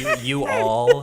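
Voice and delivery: loud, high burst of laughter through the words; laughing. Real, not acted. Offering an alternative to y'all, laughing hard. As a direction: crack up while saying it.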